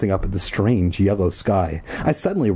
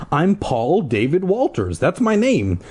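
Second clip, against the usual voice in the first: put-on excited boy; 7 semitones higher than usual. A narrator's reading. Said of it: "An excited laugh escaped from him".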